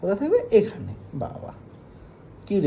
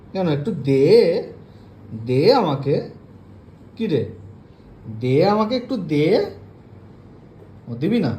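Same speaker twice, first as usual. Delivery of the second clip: louder, pleading demand; insistent coaxing; 3 dB louder than usual. Real, not acted. Owner pleading with her pet for the toy, louder. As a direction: keep pressing the pet to give it.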